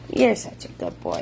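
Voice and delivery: playful low growl of praise; deep silly dog voice. Real, not acted. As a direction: drop into a deep rumbly voice for the dog.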